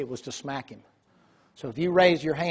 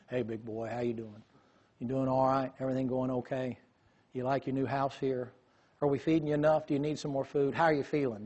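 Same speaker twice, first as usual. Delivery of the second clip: gentle horse talk; 4 dB quieter than usual. Retold or imitated. Dad murmuring softly to a nervous horse, gentle. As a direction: soothe the horse right in his ear. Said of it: "He'd talk to him, right there in his ear".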